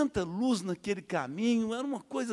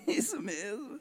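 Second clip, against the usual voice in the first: laughing reply; 5 semitones higher, 6 dB quieter, slower than usual. Retold or imitated. Laughs answering the preacher.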